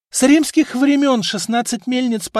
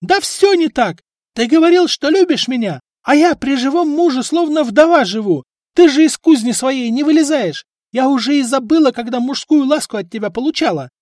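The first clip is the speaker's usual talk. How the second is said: high, much louder shrill wife's yell; 11 semitones higher, 8 dB louder than usual. A narrator's reading. Wife yelling at husband and apprentices, loud. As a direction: scream at the lazy crew. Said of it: "заорала на него в ответ жена".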